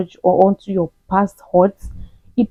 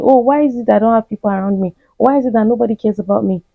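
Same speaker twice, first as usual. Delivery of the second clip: fast, self-pitying mock whine; mock whiny complaint; faster than usual. To toxic listeners, mocking their complaint, fast whiny voice. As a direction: whine it like someone sorry for themselves. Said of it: "you start complaining".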